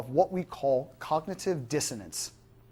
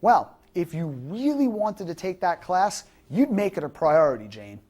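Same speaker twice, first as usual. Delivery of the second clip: confrontational; 5 dB louder than usual. Shown as a demonstration. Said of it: "The confrontational response would be".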